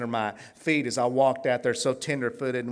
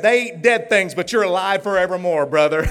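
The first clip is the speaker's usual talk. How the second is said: fervent blessing; 3 semitones higher, 8 dB louder than usual. Retold or imitated. Quoting the pastor's blessing.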